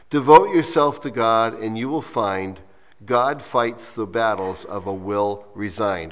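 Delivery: measured verse with pauses between lines; deliberate, unhurried recital; slow reading. Real, not acted. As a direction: read the poem slowly, line by line. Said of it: "read it to you slowly".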